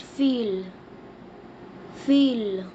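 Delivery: "fille" as "fee" with a falling end; teacher modelling "fille"; French pronunciation. Shown as a demonstration. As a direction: say "fille" the French way, one short syllable. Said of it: "We say girl in French".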